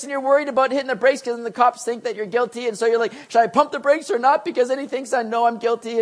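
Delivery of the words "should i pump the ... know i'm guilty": freaking out. Retold or imitated. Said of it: "you start freaking out".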